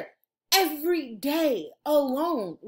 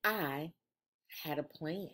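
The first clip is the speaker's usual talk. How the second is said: 1 sneaky; 9 semitones lower, 11 dB quieter than usual. A narrator's reading. Sneaky plan announced.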